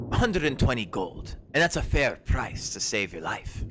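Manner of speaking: name the price like it's final; merchant quoting a price. Acted. Merchant sizing up the buyer, firm price. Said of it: "she goes".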